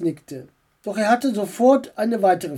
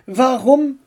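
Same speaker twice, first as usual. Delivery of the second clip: "Warum" raised and set apart; a careful, raised opening to a question; slow, deliberate start; 7 semitones higher, 6 dB louder than usual. A narrator's reading. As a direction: begin deliberately, then hold before going on. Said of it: "begann er langsam".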